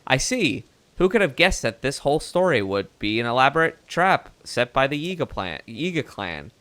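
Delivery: put-on old-timey Mid-Atlantic reporter voice; Mid-Atlantic accent. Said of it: "my, uh, Mid-Atlantic act-, accent".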